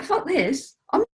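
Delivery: hammed-up liberated wife, high and loud; mock defiant woman. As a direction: play the wife finally breaking free, half laughing. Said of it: "She's like".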